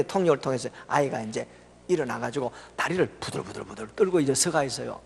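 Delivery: ordinary talk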